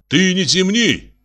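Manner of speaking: high, slow, loud telling-off; Костя scolds his sister, loud and high. A narrator's reading. Kostya snaps at his sister, loud and slow. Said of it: "громко сказал Костя".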